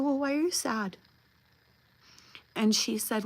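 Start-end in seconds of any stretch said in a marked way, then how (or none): 0.0-1.0 put-on higher, coaxing question to a child; retold grandmotherly concern; tender concern. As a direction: ask gently, pitched up, as to a little one. Grandmother asking sad child, acted.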